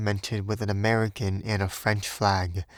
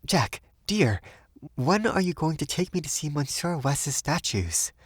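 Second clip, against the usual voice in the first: put-on higher, bright young woman; 6 semitones higher than usual. A narrator's reading. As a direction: brighten up to change the subject. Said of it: "she spoke up brightly".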